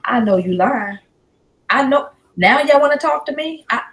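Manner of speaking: loud, high-pitched incredulous challenge; indignant outburst. Real, not acted. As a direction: call them out, voice jumping up loud. Outburst at those she accuses.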